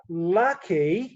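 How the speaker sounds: put-on "Lucky" in a mild silly accent, laughing, rising; a playful put-on accent on "Lucky" with a laugh; funny accent. Husband showing the catchphrase he shares with his wife, in a laughing funny accent. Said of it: "We say it in a funny accent too".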